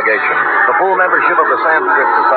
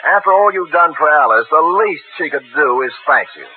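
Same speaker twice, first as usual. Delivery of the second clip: fake cheery cover; 4 semitones higher than usual. Sam covering the call as a girl's call.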